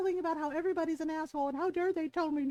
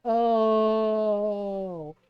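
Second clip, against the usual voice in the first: long, loud drawn-out "oh"; imitated shocked reaction; 4 semitones lower, 7 dB louder than usual. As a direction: imitate onlookers groaning at a burn. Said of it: "Both of them at the same time went".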